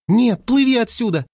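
panicked high yelp; shriek. A narrator's reading. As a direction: scream at him to flee. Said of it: "взвизгнула Финни".

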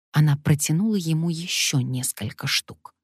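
usual speaking voice

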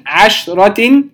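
عشرة split after a vowelless ش; شين ساكنة. Shown as a demonstration. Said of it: "ولم نحرك الشين". (عشرة بسكون الشين)

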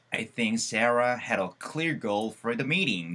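dialogue read out slowly and clearly; slow model reading. Shown as a demonstration. Teacher reading a dialogue aloud to students, slow and clear. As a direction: read it slowly for the class to follow.

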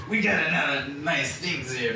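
mock a bad movie Jewish accent; stereotyped Jewish accent. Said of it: "a really bad, like, Jewish accent".

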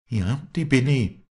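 high, loud and out of breath; breathless. A narrator's reading. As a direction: gasp it out, no air left. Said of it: "erwiderte das Mädchen atemlos".

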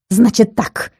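usual speaking voice

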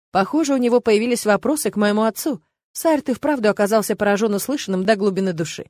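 usual speaking voice

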